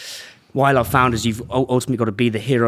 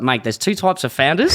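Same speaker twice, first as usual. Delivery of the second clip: put-on higher-pitched, have-a-go Aussie accent; attempted Aussie accent; 5 semitones higher than usual. Quoting a founder to the podcast host, attempted Aussie accent. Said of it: "I'm trying to do an Aussie accent".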